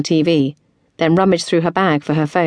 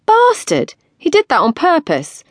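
high, loud indignant outburst; furious realisation; outraged; 12 semitones higher, 4 dB louder, slower than usual. A narrator's reading. Tilly to Erin about the driver, outraged. Outraged after being splashed.

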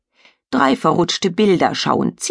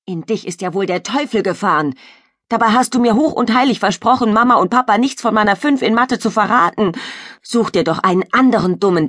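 angry brother; 3 semitones higher, faster than usual. Acted. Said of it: "springt zornig vom Esstisch auf".

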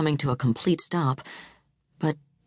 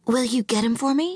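pleading; 8 semitones higher than usual. A narrator's reading. Tiffany insists to receptionist.

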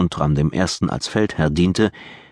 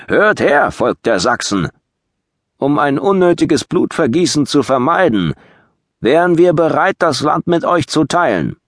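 loud, high proclamation; raised voice; 8 semitones higher, 5 dB louder than usual. Acted. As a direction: proclaim like a town crier. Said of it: "hob seine Stimme".

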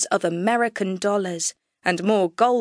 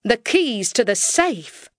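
Texan demand; 3 semitones higher than usual. Acted. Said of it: "in my best Texan drawl".

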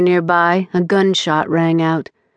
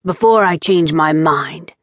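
gruff warning; rough. Acted. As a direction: say it gruffly, half-relenting. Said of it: "he said roughly".

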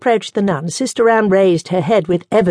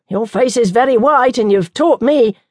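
nun voice; 5 semitones higher, 3 dB louder than usual. Acted.

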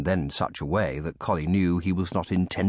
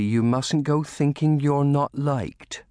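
slow, higher-pitched comforting voice; gentle reassurance; 8 semitones higher, 4 dB louder, slower than usual. A narrator's reading. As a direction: kindly talk a child out of it. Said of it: "Lucy said gently".

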